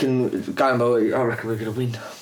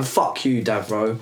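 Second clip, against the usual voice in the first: flat repeat; 5 semitones lower, slower than usual. Real, not acted. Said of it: "repeats the insult calmly".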